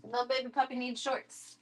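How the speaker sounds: soft cooing to the puppy; baby talk. Pretend. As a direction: coo it gently.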